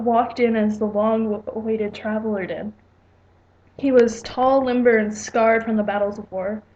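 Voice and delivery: lightly measured read-aloud narration; story narration. A narrator's reading. Writer reading own story to viewers, plain storytelling narration.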